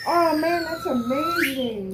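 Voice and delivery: thrilled and amazed, slowing down; excited. Real, not acted. Tasting surprising candy.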